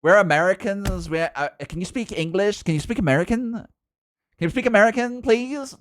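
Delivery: mock pleading, climbing in pitch; imitating baffled Americans. American viewers ask for English, mock pleading. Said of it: "everyone else is like".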